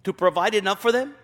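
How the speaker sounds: fast, mocking echo of Moses; Moses' sarcasm, quick and biting; sarcastic mock question. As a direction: toss the line back with a sneer. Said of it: "I hear sarcasm in his voice".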